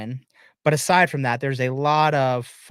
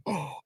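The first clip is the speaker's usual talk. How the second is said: re-enacted group gasp; mock stunned intake of breath; shocked gasp; 9 dB quieter than usual. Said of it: "Garrett were like".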